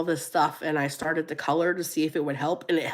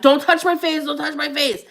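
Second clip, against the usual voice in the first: high, louder half-joking fuss; mock protest; 8 semitones higher, 4 dB louder than usual. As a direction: fend him off with a playful higher yelp. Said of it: "I'm like".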